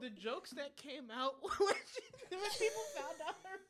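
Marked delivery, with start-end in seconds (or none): 1.4-3.6 high, helpless laughing speech; dying laughing. Real, not acted. Host recalls jokes about rapper's name, dying laughing. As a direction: get the words out through laughter. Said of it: "you dying laughing".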